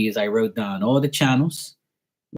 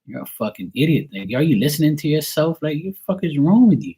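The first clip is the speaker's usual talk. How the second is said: angry retort; 4 semitones higher than usual. Retold or imitated. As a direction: tell him off, building to a shout. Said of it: "And I was like".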